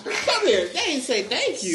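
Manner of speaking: very high comic complaint; mock outraged summons. Door holder calling in backup, mock indignant. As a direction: call over backup in pretend outrage.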